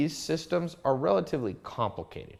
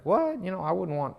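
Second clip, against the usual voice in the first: surprised Justin; 5 semitones higher than usual. Retold or imitated. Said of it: "Justin's like".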